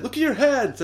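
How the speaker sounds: very high, loud mock exasperation; retold exclamation. Retelling the restaurant quarrel over invisibility, mock alarmed shout. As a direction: exclaim it urgently, hammed up. Acted film argument while invisible.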